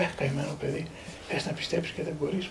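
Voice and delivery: soft, sighing retold sympathy; gentle pity. Elder to a doubting student who cannot believe, gently pitying. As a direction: quote the elder softly, with tender pity.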